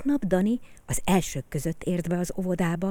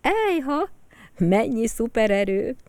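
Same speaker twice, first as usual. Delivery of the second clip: higher, marvelling exclamation; amazed teacher; 6 semitones higher, 4 dB louder than usual. Acted. The teacher amazed at the children's talents, higher and marvelling. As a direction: gasp in wonder. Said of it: "Hédi néni csak ámult".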